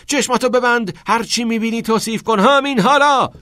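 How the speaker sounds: high, urgent shout building in volume; shouted command. A narrator's reading. Teacher makes pupil improvise with closed eyes, shouted command. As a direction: drive him on with yelled orders. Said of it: "فریاد زد".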